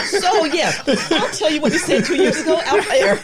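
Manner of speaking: high, loud, real laughter in the voice; laughing. Real, not acted. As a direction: talk while cracking up. Group laughing at off-air remark.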